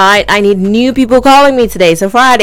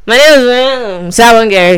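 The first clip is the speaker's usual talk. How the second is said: imitating caller again. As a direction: drag it out like a bad phone line. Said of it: "That's how you sound".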